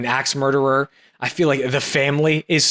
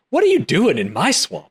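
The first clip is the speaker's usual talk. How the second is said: higher-pitched movie-line impression; lightly voiced ogre, pitched up; Shrek; 5 semitones higher than usual. Answering the co-host's attempt with their own Shrek impression. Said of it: "That's how Mike Myers sounds".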